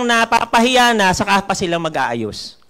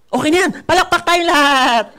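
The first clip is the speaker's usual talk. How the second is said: mock lazy presenter; 7 semitones higher than usual.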